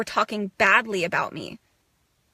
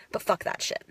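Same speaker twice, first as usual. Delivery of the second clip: softer breathy whisper of defiance; 3 semitones lower, 8 dB quieter than usual. Real, not acted. Rejecting her old people-pleasing: whispered defiance. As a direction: hiss it under your breath.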